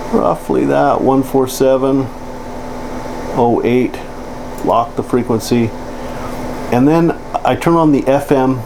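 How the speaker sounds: ordinary talk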